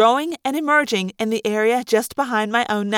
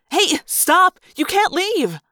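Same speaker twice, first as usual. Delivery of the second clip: higher, raised call to stop; yelling; 6 semitones higher, slower than usual. Acted. Clipboard woman calls after girls leaving the stage, yelling. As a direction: call them back as they hurry off. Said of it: "who yelled".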